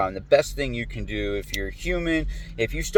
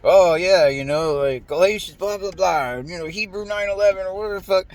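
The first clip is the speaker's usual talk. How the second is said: mocking Bible quoter; 5 semitones higher than usual. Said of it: "they're like".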